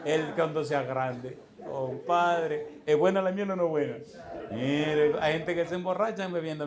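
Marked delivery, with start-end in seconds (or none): 0.0-1.4 laughing mock advice.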